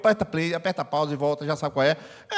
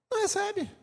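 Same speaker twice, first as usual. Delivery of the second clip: "Não recebe" lifted high and soft, "Não" stressed; high soft exclamation; 13 semitones higher, 6 dB quieter than usual. Shown as a demonstration. Preacher to the congregation, "Não recebe" high and hushed. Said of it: "contrasting repeat of not receiving".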